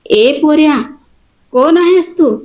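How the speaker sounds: shouting. Acted. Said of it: "कुणीतरी ओरडले".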